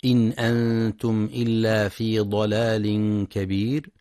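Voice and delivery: slow, measured tajweed chant; Quran recitation. Acted.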